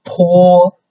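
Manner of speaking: PO held very high and level; high, steady PO; first tone. Shown as a demonstration. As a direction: say PO on one high, flat pitch. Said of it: "And it's very high".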